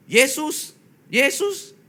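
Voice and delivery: high, strained, alien voice forcing out the name; imitating a possessed woman straining to say Jesus; eerie high possessed cry; possessed woman's voice. Possessed mother forced to say Jesus.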